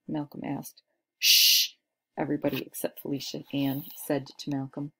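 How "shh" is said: sharp unvoiced shush. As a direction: hush him at once. Class hushing Malcolm.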